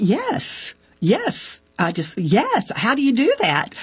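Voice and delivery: high, eager repeated yes. Retold or imitated. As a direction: jump at the offer, keen and high.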